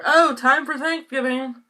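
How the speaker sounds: words pushed out on a burp. Real, not acted. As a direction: burp through the line. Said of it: "Excuse me".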